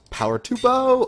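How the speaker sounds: high, loud victory shout; triumphant cheer. Real, not acted. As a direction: cheer it like a win. Enchanting her bow triumphantly.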